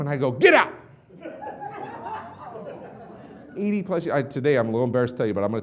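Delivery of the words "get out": higher, louder mock order to leave; retold angry shout. Rep ejecting the doubting lady, retold angry shout. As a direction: re-enact throwing someone out, loudly.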